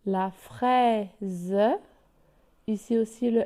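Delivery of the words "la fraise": "fraise" drawn out as frai-ze; stretched Z sound. Shown as a demonstration. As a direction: hold "fraise" and sound a separate final -ze. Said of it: "donc il se prononce Z". (« fraise » étiré, avec le son z détaché)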